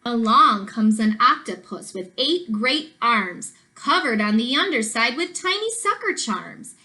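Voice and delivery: rhythmic picture-book storytelling with swooping pitch; sing-song storybook narration; reading to children. A narrator's reading. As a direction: read the rhyme aloud to young children, bouncing on the stresses.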